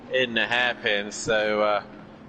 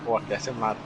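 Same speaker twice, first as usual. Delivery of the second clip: understated attempt at a Scottish accent; terrible Scottish accent. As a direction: repeat it in a half-hearted Scottish accent. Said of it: "That's my terrible accent of Scottish".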